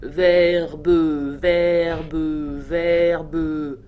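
low, loud machine voice, stuck on one word; monstrous machine stutter. A narrator's reading. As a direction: blare it like a broken talking machine, syllables drawn out. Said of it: "la parole fit explosion dans un monstrueux bégaiement".

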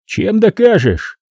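slow, high questioning voice; a gangster's suspicious challenge; elder killer asking. A narrator's reading. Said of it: "поинтересовался старший". (медленно, с подозрением)

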